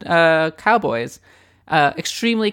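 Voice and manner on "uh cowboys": Casey Kasem countdown voice. Pretend. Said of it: "Casey Kasem countdown voice".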